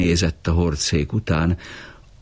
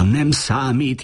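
higher, slowed call; 8 semitones higher, slower than usual. A narrator's reading. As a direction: raise the voice to be heard over him. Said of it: "kiáltotta Filó".

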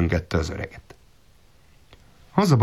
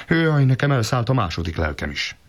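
more frightened; 4 semitones higher than usual. Acted. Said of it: "még jobban megrémült".

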